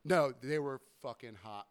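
ordinary talk, nothing marked

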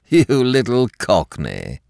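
slow, fond teasing; husband fondly teasing his young fiancée; affectionate. Acted. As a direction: tease her tenderly, taking time. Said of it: "he had said affectionately".

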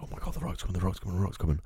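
breathless excited whisper, panicky; nervous fanboy whisper. Retold or imitated. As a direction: whisper it like a starstruck fan. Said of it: "I would love to think".

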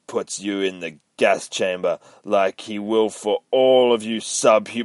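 loud mocking villain laugh, then sneering threat; hammed-up villain soldier; gloating soldier. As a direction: gloat over the captive. Villain soldier voiced in retelling.

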